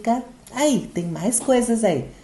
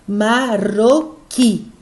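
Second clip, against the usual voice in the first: marroquí very slowly as ma-rro-QUÍ; stress on QUÍ; 3 dB louder, much slower than usual. Shown as a demonstration. Teacher giving an example of an aguda, marroquí with QUÍ stressed. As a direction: split marroquí into three beats, landing on the final "quí". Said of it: "Qui é a sílaba tônica".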